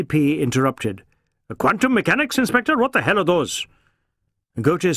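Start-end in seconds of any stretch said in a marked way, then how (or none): 1.6-3.7 higher, incredulous boss; a senior officer demanding an answer; stern police chief, puzzled; curt superior officer. A narrator's reading. ACP interrupts Ghote.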